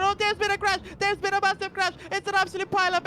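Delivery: alarmed play-by-play burst; excited. Real, not acted. Commentator sees a crash.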